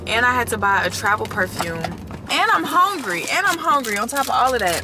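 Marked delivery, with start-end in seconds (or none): 1.8-4.8 whiny hungry. Real, not acted.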